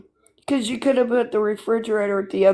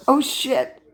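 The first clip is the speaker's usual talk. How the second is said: mock surprise; 7 semitones higher than usual. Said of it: "I went".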